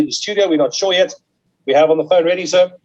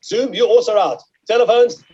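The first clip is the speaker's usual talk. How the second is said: auction bid spotter; 2 semitones higher than usual. Real, not acted. Auctioneer calling bids live.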